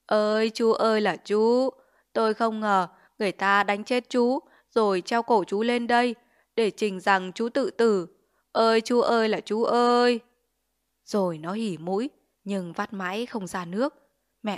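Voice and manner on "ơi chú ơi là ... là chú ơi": hammed-up crocodile tears, wailing for show; fake wailing lament. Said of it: "làm như khóc than rồi hờ".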